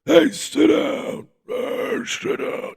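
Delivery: high, strained imitation of a heckler's yell; mock crowd yelling. Annoyed concertgoers yell at a standing fan, mock high-pitched yelling. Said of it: "everyone's kinda yelling at me".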